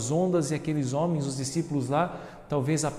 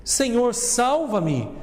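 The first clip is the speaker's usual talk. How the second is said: higher, louder plea from the reader; cry for help; 8 semitones higher, 5 dB louder, much slower than usual. A narrator's reading. Peter to Jesus as he sinks, urgent cry. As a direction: call out as if sinking. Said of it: "começou a afundar e gritou".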